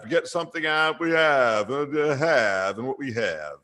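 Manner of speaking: lightly voiced coach sliding toward a famous singer's voice; Freddie Kitchens. Coach answering a preseason question, light parody of a famous singer. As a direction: parody coach stumbling and repeating himself. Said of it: "He's sounding more and more like Elvis".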